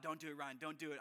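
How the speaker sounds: quiet inner warning to self. Retold or imitated. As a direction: hush yourself away from the mistake. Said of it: "I had this thought".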